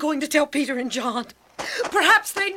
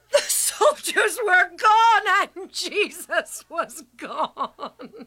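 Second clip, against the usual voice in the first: crying; 2 semitones higher, slower than usual. Acted. Mary tells disciples, tearful.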